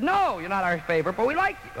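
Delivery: a hint of a high little visitor voice; visitors' voice. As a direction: chirp back as the odd guests.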